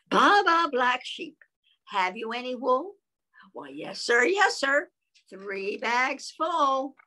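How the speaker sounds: slow sing-song rhyme; reading to children. Acted. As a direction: read it like a nursery rhyme. Reading picture book aloud.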